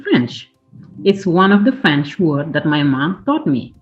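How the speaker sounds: gentle storybook read-aloud; reading to children. A narrator's reading. Parent reading a travel story to kids, gentle storybook voice. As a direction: read it like a bedtime picture book. Reads picture book aloud.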